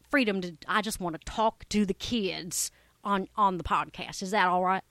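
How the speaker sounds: a hint of an eager kids' acting coach; lightly voiced acting coach. Deborah the coach greets the young listeners, lightly voiced and eager. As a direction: play a chipper coach talking to kids. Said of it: "I present to you Deborah the coach".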